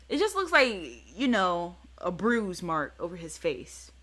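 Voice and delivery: ordinary talk, nothing marked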